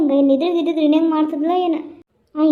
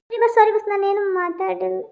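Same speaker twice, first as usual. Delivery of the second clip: mock panic; 4 semitones higher than usual. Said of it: "ನಾನ್ ತಮಾಷೆ ಮಾಡಿದ್ ಬಿಡ".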